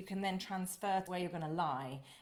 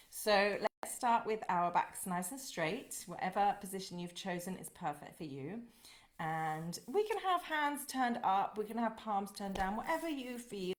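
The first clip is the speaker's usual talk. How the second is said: guided meditation. Acted. Teacher starts leading the meditation.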